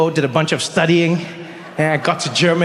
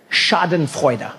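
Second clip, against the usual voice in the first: slow demonstration; much slower than usual. Shown as a demonstration. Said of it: "taught me a new word that day".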